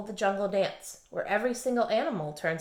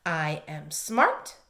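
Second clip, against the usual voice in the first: slow, low, deliberate affirmation; slow lower-pitched chant-like affirmation; 5 semitones lower, much slower than usual. Shown as a demonstration. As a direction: say it slowly for children to echo. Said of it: "repeat after me".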